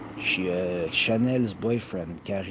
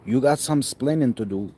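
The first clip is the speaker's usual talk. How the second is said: louder and higher, hammed-up scolding; sitcom husband impression; 6 semitones higher, 9 dB louder than usual. Telling Lucy she has explaining to do, louder mock scold.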